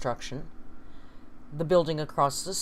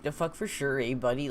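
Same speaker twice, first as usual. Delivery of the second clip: lightly imitated Northern Ontario hoser; Northern Ontario hoser accent; 2 semitones lower than usual. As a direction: put on a hint of hoser Canadian accent. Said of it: "the hoser".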